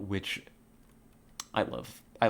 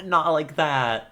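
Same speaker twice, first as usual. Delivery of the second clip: softer repeated protest; 5 semitones higher, 6 dB louder, slower than usual. Real, not acted. Streamer repeating her objection to chat, calmer laughing. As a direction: still laughing, a bit louder and slow.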